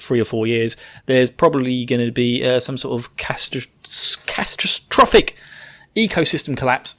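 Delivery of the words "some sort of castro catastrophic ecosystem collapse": whispered doom. Pretend. Whispering doom to listeners in a mock aside. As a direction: breathe the doom out in a hush.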